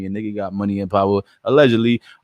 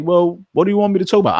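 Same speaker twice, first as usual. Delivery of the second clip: retold reply; 9 semitones higher, 3 dB louder, faster than usual. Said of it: "I'm like".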